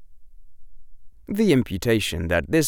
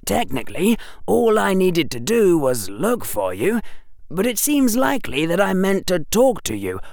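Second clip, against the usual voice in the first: put-on young boy muffled by scarf; 10 semitones higher than usual. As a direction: talk through a scarf over the mouth. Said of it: "said that young, muffled voice".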